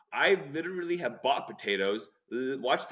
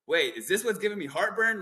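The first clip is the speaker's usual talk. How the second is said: pitched much higher, a mock sudden realization; mock alarm; 9 semitones higher than usual. Retelling himself reading a food label, mock-alarmed high question. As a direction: play the penny dropping, high and startled. Retold realisation about additives.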